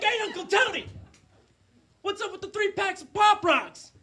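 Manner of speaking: high-pitched, incredulous question; high, puzzled call to a relative; curious questioning. Acted. Nervously curious nephew questions uncle.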